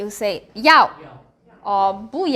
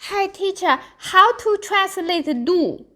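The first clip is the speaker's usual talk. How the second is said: imitating a student; 6 semitones higher than usual. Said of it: "many students before ask me".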